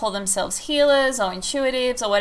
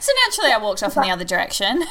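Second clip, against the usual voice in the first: laughing; much faster than usual. Real, not acted. Host jokingly finishes her sentence.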